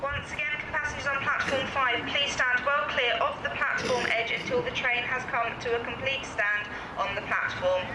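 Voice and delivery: on a train platform. Real, not acted. Live station PA announcement.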